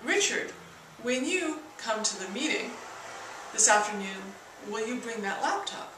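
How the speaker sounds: mix the tones across Richard, when you come to the meeting this afternoon; combined tonality. Shown as a demonstration. Teacher combining the tones into one utterance. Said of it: "when you put these together, you get".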